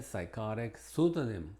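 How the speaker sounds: psychotic and pseudonym said with a silent p, starting on a plain s; silent p demo. Shown as a demonstration. Teacher showing learners the silent p before s. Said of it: "Con S".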